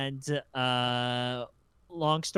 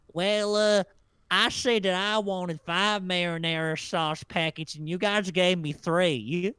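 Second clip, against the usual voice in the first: high, loud mocking Southern caller; mock angry customer; 6 semitones higher, 6 dB louder, slower than usual. The customer complaining about marinara packets, high and loud in mockery. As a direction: whine it like the petty customer.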